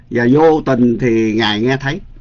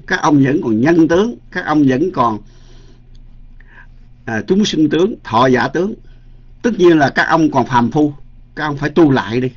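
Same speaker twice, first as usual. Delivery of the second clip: retold loud scolding; 3 semitones higher than usual. Haughty official berates monks for opposing him, mild retold shouting. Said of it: "ổng lớn tiếng, ổng la lên".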